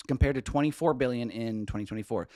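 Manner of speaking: loud, hammed-up Minnesota accent; thick Minnesota accent. Shown as a demonstration. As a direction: read the business news like a Minnesotan. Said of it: "killing it so hard with that accent".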